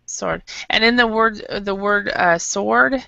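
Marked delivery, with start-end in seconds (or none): 0.1-0.4 "Sword" said as "sord", no W; silent W in Sword. Shown as a demonstration. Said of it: "you do not pronounce the W". 2.4-3.0 "sword" said clearly as "sord"; silent W in sword. Shown as a demonstration. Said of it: "you do not pronounce the W".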